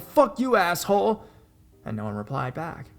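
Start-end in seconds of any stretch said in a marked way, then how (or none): 0.0-1.2 high, loud shouted insult; angry yell. Retold or imitated. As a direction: hurl the insult up at someone out of sight. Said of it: "We immediately yell above with".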